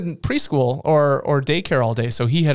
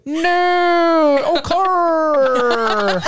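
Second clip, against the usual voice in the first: high, loud, mock Australian; a hammed-up Aussie drawl; Australian accent; 12 semitones higher, 4 dB louder, much slower than usual. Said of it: "she'll go".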